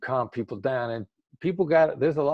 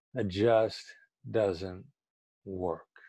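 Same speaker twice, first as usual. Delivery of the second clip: soft late-night FM DJ radio host delivery; 4 semitones lower, 6 dB quieter than usual. Speaker shows how they turn down a term, in a late-night FM DJ voice. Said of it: "with the late night F M D J voice".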